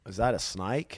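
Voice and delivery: put-on a touch of Southern accent on the redo; lightly put-on Southern accent. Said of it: "that was just Southern".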